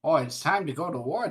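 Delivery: lightly put-on Michigan accent. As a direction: give it a folksy Michigan twang. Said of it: "That's more Michigan".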